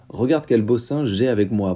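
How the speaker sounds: a touch of showing off, lightly voiced; proud proclamation. The farmhand proudly showing the lawyer to the innkeeper, in a lightly boastful voice. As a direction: lightly boast about the monkey. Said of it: "proclama-t-il fièrement".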